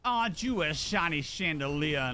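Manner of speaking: low, lightly voiced southern charmer; a hint of Georgia sweet-talk; Georgia accent. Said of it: "I'm gonna do a Georgia voice".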